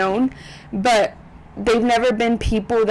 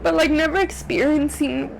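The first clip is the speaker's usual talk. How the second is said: high voice, close to crying; tearful; 6 semitones higher than usual. Real, not acted. Vlogger grieving her first close loss, tearful. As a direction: push on through the tears. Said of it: "I don't wanna ruin my makeup".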